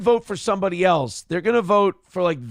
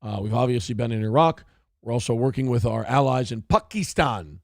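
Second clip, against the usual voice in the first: Obama impression; 5 semitones lower than usual. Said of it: "Barack Obama used to go".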